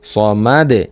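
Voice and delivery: "স মা দে" ending in a bounced d; pausal pronunciation. Shown as a demonstration. Teacher shows the stop form, qalqalah on "স মা দে". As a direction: stop on "স মা দে" with a short echo on the d. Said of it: "ওয়াকফ করলে".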